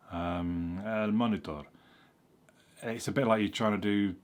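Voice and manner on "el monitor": "El escritorio" in a careful Spanish accent, rolled r; imitating a Spanish speaker's accent. Shown as a demonstration. Learner showing how to sound Spanish, in Spanish accent. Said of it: "you're trying to do an accent".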